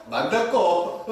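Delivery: short Gyeongsang question amid laughter; Gyeongsang dialect. Shown as a demonstration. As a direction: fire off a curt Gyeongsang question. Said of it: "이렇게 그냥 아주 짧아버려요". (짧게 툭 던지는 경상도 사투리)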